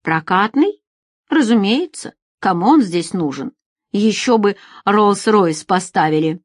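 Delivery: put-on mildly patronising, as to silly children; condescending. Feride answers Alex like an unreasonable child, condescending. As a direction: explain it as if to a foolish child. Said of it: "каким обычно разговаривают с неразумными детьми".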